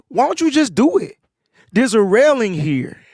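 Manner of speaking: incredulous retold dare; retold challenge. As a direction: replay daring someone to go ahead. Retelling his challenge to a fan.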